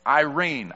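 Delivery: "eirene" said like the name Irene; own pronunciation. Shown as a demonstration. Preacher showing the congregation how he says the Greek word, "eirene" as Irene. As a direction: say "eirene" as eye-REEN. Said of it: "I pronounced it Irene".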